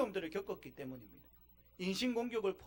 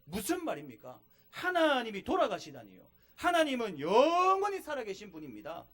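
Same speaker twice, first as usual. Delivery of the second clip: rebuking; 4 dB louder than usual. Retold or imitated. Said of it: "아내를 막 꾸짖습니다".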